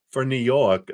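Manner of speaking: badly faked New York accent; attempted New York accent. Shown as a demonstration. Tarot reader trying out a New York accent she says she can't do. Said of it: "I can't do a New York accent".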